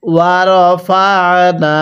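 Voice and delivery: stretched syllables, measured Arabic reading; slow recitation. Shown as a demonstration. Teacher models the word slowly for learners to copy. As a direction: draw out ওয়া র ফা না evenly. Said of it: "কিভাবে শিখব?".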